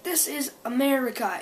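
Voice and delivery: lightly voiced condescending bully; retold mean bully. Bully telling girl where she is, mildly mean. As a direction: spell it out for a foreigner, mildly mean. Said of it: "he's being really mad, mad, mean".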